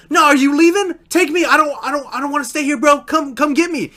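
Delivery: high, urgent begging; whiny plea not to be left behind; mock pleading. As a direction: imitate a panicky friend begging to come along. Friend begs not to be left.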